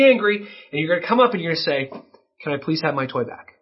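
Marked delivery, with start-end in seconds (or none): 2.4-3.5 calm, polite request with self-control; warm voice. Shown as a demonstration. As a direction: ask kindly, keeping your temper. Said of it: "a, a warm voice".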